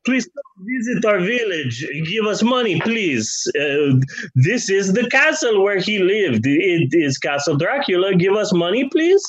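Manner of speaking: lightly voiced pleading villager; a hint of a begging local guide; mock tourism pitch. Mocking Transylvania pleading with tourists for money, lightly voiced.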